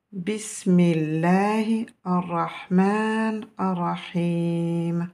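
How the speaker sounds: drawn-out Quranic recitation; slow melodic invocation. Shown as a demonstration. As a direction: chant each word slowly and reverently. Opening invocation before the lesson.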